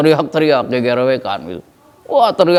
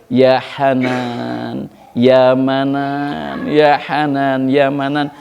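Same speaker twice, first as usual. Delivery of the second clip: slow mournful plea; 3 semitones lower, much slower than usual. Acted. Believer's plea in hell.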